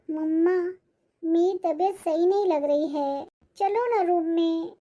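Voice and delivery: put-on a child tugging at his mother to come away; sick little boy.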